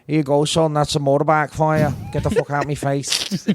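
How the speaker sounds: gruff Scottish grandfather line; rough Scottish brogue, a bit coarse; Scottish accent. Shown as a demonstration. Doing the grandfather line for friends in a gruff Scottish accent. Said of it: "accent update".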